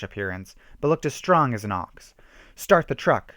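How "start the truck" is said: shouting. A narrator's reading. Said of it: "shouted the chief".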